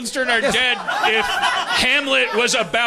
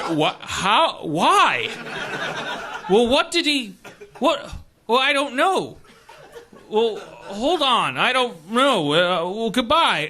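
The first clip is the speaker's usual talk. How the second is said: Bob Newhart phone bit; slower than usual. Retold or imitated. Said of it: "like a Bob Newhart bit".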